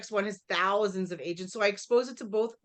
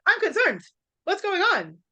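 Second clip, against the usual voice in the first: high-pitched, worked-up mock alarm; alarmed misreading; 8 semitones higher, 4 dB louder than usual. Shown as a demonstration. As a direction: blurt it out as if panicking over a text. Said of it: "it might be like".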